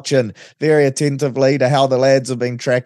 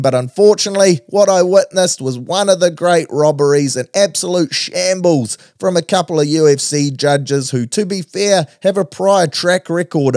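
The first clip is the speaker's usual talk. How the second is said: radio segment host; 3 semitones higher than usual. Acted. Host opening his weekly wrap, venting about a fight robbery, punchy sports-radio read.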